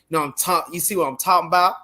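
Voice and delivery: "talking about" run together as talm 'bout; blended slang. Retold or imitated. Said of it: "friends would always say".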